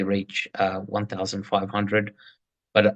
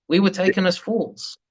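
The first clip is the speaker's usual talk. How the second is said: normal talking voice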